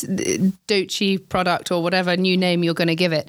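talking with a mouthful; mouth full. Real, not acted. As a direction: say it around a bite of food. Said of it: "I've got my mouth full".

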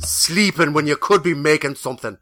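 loud scolding grandmother; ghost voice. Retold or imitated. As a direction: nag like a stern old granny. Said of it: "It's usually something like".

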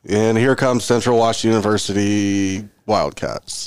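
slow, measured PA announcer intro; lightly voiced stadium announcer. Announcer introducing the visiting team at the game, lightly imitated announcer voice. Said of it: "I'm doing my announcer voice".

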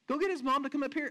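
urgent aside, lightly hammed up; mock alarmed bystander. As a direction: play a flustered onlooker calling for help. Acted annoyed onlooker in the congregation.

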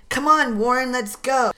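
urgent call. Acted. Tom and Jeremy urging Warren to flee, high urgent call. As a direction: hurry him along.

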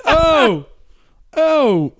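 a panicked groan on seeing the knee; pained alarm. Retold or imitated. Noticing dislocated knee.

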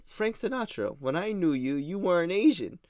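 a hint of grand theatrical accusation; Laszlo delivery impression. Fan reenacting the Sinatra joke, lightly voiced. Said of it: "I'm gonna do the delivery".

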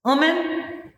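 slow Gullah Geechee phrase; Gullah accent. Shown as a demonstration. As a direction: speak it in full Gullah. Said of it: "I'll give them a Gullah Geechee phrase".

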